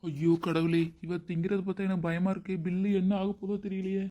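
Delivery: hammed-up dismayed wail; comic dread. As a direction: fret helplessly over the coming bill. Father dreads the restaurant bill.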